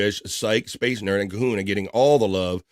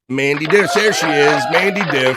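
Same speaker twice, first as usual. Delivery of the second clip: excited welcome; 5 semitones higher, 6 dB louder than usual. Real, not acted. Greeting a chatter with fanfare.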